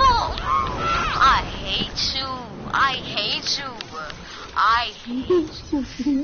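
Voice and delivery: slow, drawn-out frustrated whine; long, whiny lament; frustrated moan. Real, not acted. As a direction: drag the words out in frustration. Complaining at opponent after loss.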